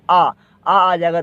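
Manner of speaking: आ drawn out slowly as an open aa, not ओ; long aa, not o. Shown as a demonstration. Teacher correcting students, a slow open आ instead of ओ. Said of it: "ओ नहीं बोलना है".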